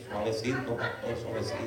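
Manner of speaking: very soft, low mock plea; imitated hushing. Old man calming the pastor, imitated in a low hush. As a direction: hush him gently, almost under the breath.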